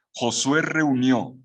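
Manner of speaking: "reunió" drawn out slowly and leaned on; slow down and press "reunió"; stress on the verbs. Shown as a demonstration. Teacher slowing to stress "reunió" for the class. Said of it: "atención con los verbos".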